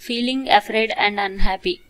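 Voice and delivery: slow whispered definition; whispered reading. Shown as a demonstration. Teacher whispering the meaning of worried to students, slow. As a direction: whisper it slowly, voiceless.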